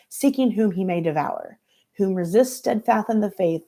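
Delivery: lightly voiced mama reading scripture; preachy church mother.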